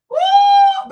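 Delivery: loud shrieking woo; high loud whoop. Real, not acted. Streamer whoops loudly at her own comeback.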